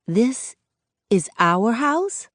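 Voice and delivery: amazed. Acted. Kids see the new house.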